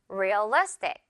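Realistic with a firm "li"; stress on the second syllable. Shown as a demonstration. Teacher modelling for repetition, Realistic stressed on "li". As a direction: hit the middle "li" of Realistic. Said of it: "리 부분에 강하게 강세를".

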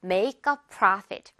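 very slow, stress on not; slow model sentence. Shown as a demonstration. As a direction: spell out the sentence slowly. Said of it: "이윤을 보다".

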